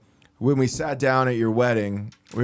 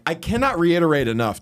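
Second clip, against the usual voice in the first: higher-pitched retold exasperation; insist, mock-defensive; fed-up retold protest; getting defensive; 4 semitones higher than usual. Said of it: "like, offensive".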